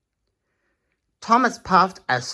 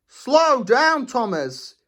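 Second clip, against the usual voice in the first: higher call to slow down; 8 semitones higher, slower than usual. Acted. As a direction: call after the speeding train. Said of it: "Shane called".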